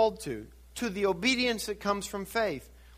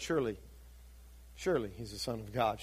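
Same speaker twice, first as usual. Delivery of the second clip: hushed awe; 9 semitones lower, 11 dB quieter, faster than usual. Retold or imitated. Centurion's awed confession at the cross.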